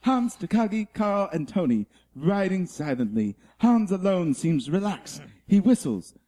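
a light wildlife documentary narration; nature documentary narrator. Acted. Reading the Die Hard script as a nature documentary, lightly. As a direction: narrate the scene like a nature film. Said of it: "Planet Earth, uh, narrates Die Hard".

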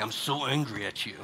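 low, understated grumpy anger; mock anger. Shown as a demonstration. Parent showing how grumpy eyes sound, mild mock anger. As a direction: grumble it low, as a demo of anger. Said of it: "it doesn't sound like".

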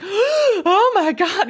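high, slow, drawn-out wonder; awestruck gasp. Retold or imitated. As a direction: let it melt out in disbelief. Overwhelmed after she says love.

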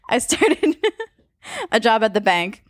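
giggling through a dad joke; telling a dad joke. Acted. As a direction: laugh through the setup, then the punchline. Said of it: "tell us a story".

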